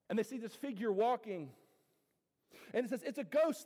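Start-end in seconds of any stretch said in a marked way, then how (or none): 3.0-3.7 mock frightened cry. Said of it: "they cried out in fear".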